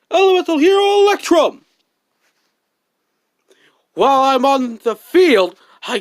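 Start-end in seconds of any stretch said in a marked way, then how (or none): 0.1-1.6 loud, high, fast hero call; summoning call. Acted. Duelist proudly summons his fusion hero, loud call. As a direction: announce the monster with triumph.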